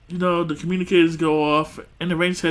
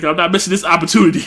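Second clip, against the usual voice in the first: louder, determined villain shout; mock shout; 3 semitones higher, 5 dB louder, faster than usual. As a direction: seize the moment. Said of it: "She's like".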